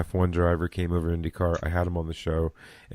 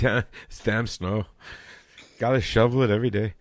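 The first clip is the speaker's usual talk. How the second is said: put-on accidental touch of an Irish accent; 3 semitones higher than usual. Co-host grumbling along about shovelling snow, Irish accent. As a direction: slip lightly into an Irish lilt. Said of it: "There's my Irish accent again".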